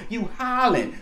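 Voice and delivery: high, loud hollering. Real, not acted. Calling out hollering.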